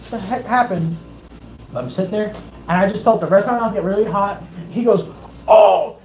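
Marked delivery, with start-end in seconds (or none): 5.5-6.0 loud, startled mock cry; imitated freak-out. Dentist seeing sparks, imitated alarmed outburst. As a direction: yelp like the panicking dentist. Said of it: "he freaked, you know what he did".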